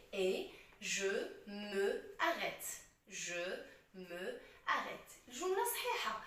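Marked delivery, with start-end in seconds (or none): 0.8-2.8 "me" kept whole, apart from "arrête"; unelided je me arrête. Shown as a demonstration. Teacher reading the phrase under correction, slowly, "me" and "arrête" apart. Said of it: "au lieu de dire «je me arrête»". 3.1-5.2 slow, word by word, "me" apart from "arrête"; unelided je me arrête. Shown as a demonstration. Teacher repeating the phrase to correct, slowly, "me arrête" unelided. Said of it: "au lieu de dire «je me arrête»".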